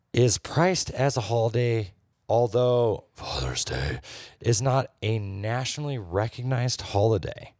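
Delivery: measured, deliberate reading with pauses; mock-serious recital of a bad review; review read aloud. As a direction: read out a written complaint, dragging key phrases. Reads a restaurant review aloud.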